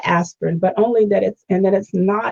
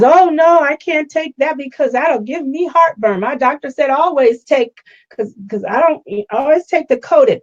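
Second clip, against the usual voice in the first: imitating mother-in-law; 5 semitones higher than usual. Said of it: "And she says".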